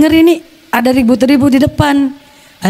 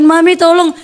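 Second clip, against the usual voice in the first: higher, mock cry for help; retold plea; 5 semitones higher than usual. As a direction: plead with mother for rescue. (memohon tolong, tiruan)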